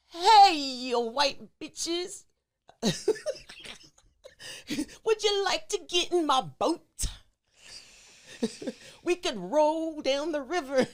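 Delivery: slow, drawn-out mock Cosby croon; a lightly done Cosby, stretching each word; improvised Cosby calling to women in a canoe, slow and drawn out; Bill Cosby impression. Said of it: "you're Bill Cosby".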